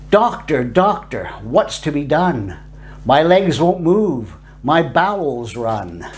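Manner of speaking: slow, sing-song recital of a grim rhyme; macabre nursery rhyme. Acted. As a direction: chant it like a morbid children's verse.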